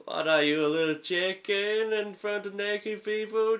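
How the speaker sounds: Tommy Wiseau taunt. Acted. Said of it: "Tommy Wiseau".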